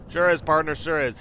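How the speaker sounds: Western cowboy agreeing; easy Southern cowboy drawl. Acted. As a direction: drawl it like a ranch hand. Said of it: "Gabby doesn't talk like that".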